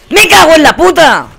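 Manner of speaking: loud, high swearing outburst; furious yell. Real, not acted. Player yelling a curse after dying, loud and high. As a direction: scream the curse at the screen. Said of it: "No es normal lo que estoy gritando".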